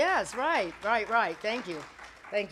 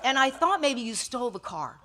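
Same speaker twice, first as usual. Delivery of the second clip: louder, laughing through the officer's punchline; 4 semitones higher, 8 dB louder than usual. Retold or imitated. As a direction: deliver the joke while chuckling. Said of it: "And he said".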